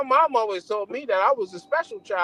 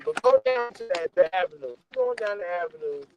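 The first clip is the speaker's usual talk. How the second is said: choppy signal, words dropping out; breaking up over a bad connection; voice going in and out. Real, not acted. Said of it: "Your voice getting low again".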